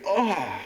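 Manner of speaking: acted cry on hitting a wall; pained "oh". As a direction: play walking straight into a wall. Acts bumping into a wall.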